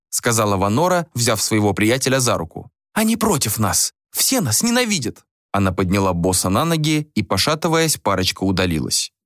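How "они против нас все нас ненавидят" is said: high-pitched, aggrieved voice; acted wounded indignation; bitter complaint. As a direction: complain of everyone's hostility. Bitter woman leaving after losing quarrel.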